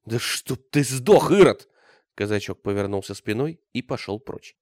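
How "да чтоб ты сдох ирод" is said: slow, then a loud outburst on Ирод; furious curse. A narrator's reading. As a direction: curse him with hatred. Cossack curses Bogdan. (проклятие, на выкрике)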